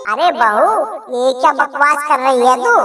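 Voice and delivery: lightly voiced shocked mother-in-law. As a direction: scold the bahu's nonsense.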